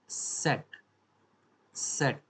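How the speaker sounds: सेट with a sharp ts-like S at the start; German Z sound. Shown as a demonstration. Teacher showing the German sound of Z, सेट with S. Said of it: "जेड है इसकी German में sound आती है".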